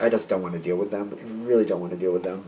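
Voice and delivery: low, soft reluctant aside; quiet reluctance. Acted. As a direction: say it low, wanting no part of it. Imagined reluctant avoidance of someone.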